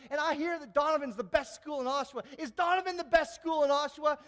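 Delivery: a student hyping the room; rousing pitch. Retold or imitated. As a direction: work up the crowd. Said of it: "I said".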